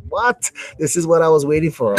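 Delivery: a sudden high incredulous "what?"; baffled that the new game has barely any new fighters. Real, not acted. Gamer to his co-host about the roster, incredulous.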